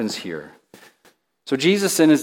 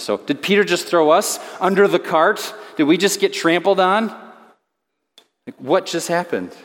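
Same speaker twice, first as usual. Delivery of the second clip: higher-pitched, incredulous questions; bewildered inner thought; 5 semitones higher than usual. Retold or imitated. Disciple feeling thrown under the cart by Peter, incredulous. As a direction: question it in mock disbelief. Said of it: "internal processors in that group".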